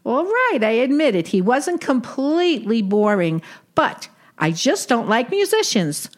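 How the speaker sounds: put-on old Brooklyn aunt with Yiddish lilt; yiddish accent. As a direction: play a wisecracking Jewish aunt. Sadie role continues.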